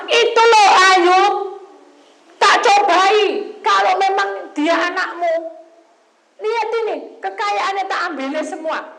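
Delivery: loud, high, goading challenge; taunting Satan. Acted. Satan taunts God about Job, loud and goading. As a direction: dare God as the devil would.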